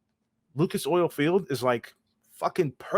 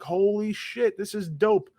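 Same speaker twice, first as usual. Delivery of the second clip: retold excitement; 6 semitones higher, slower than usual. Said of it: "I'm like".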